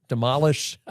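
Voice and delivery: put-on demolish in a playful French accent, stress moved to the end. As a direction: say demolish like a Frenchman, with a rising finish. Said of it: "you're adopting my French accent".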